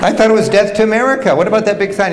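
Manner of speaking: laughing disbelief. Real, not acted. Speaker telling the audience about the driver, laughing in disbelief. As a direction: chuckle at your own mistaken idea.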